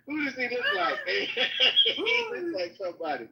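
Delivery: talking through laughter; rozbawienie. Real, not acted. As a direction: laugh while getting the words out. Cracking up at the picture.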